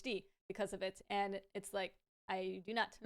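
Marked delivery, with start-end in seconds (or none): 2.3-3.1 laughing. Real, not acted. Denies ADHD and laughs.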